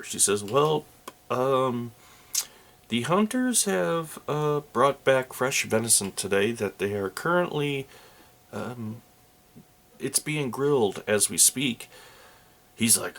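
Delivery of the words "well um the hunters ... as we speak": lightly voiced innkeeper, pitched higher; a friendly innkeeper chatting up guests, a bit higher.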